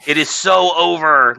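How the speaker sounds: high, drawn-out mock gloating; mocking triumph. Host mimics opponents declaring victory, mocking triumph. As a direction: stretch it out high, ridiculing the gloaters. Mocking anti-Israel side's celebrating.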